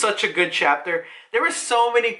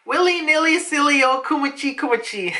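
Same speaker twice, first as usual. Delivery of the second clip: lightly voiced girl, higher pitched; playful singsong girl; 5 semitones higher than usual. Narrator acts out Guinea's silly rhyme, playful singsong. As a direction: chant it playfully in a raised little voice.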